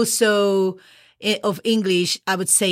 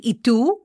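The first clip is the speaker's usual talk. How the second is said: "¿Y tú?" with tú drawn up questioningly; asking a question. Shown as a demonstration. Teacher shows how you ask the other person, questioning. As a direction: stress and lift on tú. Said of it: "we are asking the question".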